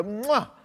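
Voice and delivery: playful kiss sound of delight; mock delighted kiss. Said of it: "And you're gonna go".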